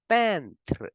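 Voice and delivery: peintre with a nasal French vowel and rolled end. Shown as a demonstration. Teacher models French peintre. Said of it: "we say".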